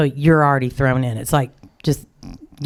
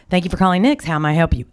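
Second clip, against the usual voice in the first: bright shop greeting, pitched up a little; cheerful phone greeting; 4 semitones higher, much faster than usual. Retold or imitated. Shop owner answering calls at the card store, upbeat greeting. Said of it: "So we always say".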